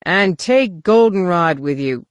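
loud, slow call. Acted. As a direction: call it from the hatch. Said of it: "Han called out".

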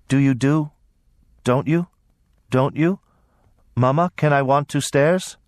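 put-on high, halting simple girl's voice; high thick-tongued little voice; thick, weak girl's voice. A narrator's reading. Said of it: "a thick, weak voice".

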